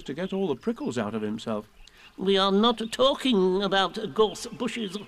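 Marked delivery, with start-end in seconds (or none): 2.2-5.0 higher, louder, slow mildly cross owl; a little cross. A narrator's reading. Owl correcting Pooh, a little crossly. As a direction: correct him with slight irritation. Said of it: "said Owl a little crossly".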